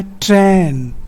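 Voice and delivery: "ट्रेन" held as a separate syllable; isolated syllable. Shown as a demonstration. Teacher counts out the second syllable, "ट्रेन" isolated. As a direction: sound out "ट्रेन" on its own. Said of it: "दूसरा है".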